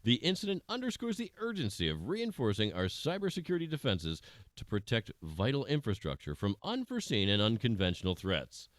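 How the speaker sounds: measured anchor delivery of breaking news; news read. Acted. News anchor briefs viewers on the lab breach, in a formal news read. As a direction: read it like an evening news bulletin.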